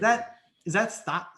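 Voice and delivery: mock disbelief. Shown as a demonstration. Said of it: "see how I'm like, "Whoa, nobody's ever taken it this far".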